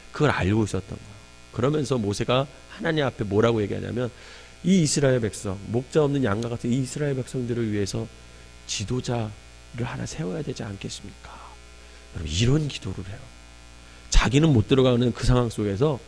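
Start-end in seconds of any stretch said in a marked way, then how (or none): 4.6-11.4 quiet plea. Retold or imitated. Moses pleading in prayer.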